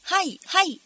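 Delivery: excited high-pitched shout, acted in narration; urgent shouting. A narrator's reading. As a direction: call out orders urgently, building to a shout. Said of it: "strigă Barca".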